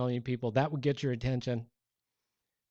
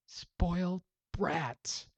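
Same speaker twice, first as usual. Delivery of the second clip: disgusted; 5 semitones higher, much slower than usual. Real, not acted. Pastor judging the Israelites.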